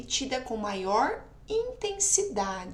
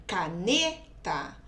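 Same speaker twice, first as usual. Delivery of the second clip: "caneta" with the middle NE stretched and strong; teacher's demo of "caneta", stressed NE; 4 semitones lower, slower than usual. Shown as a demonstration. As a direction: lean hard on NE in "caneta", then drop off on TA. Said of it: "o ne eu pronuncio com maior intensidade".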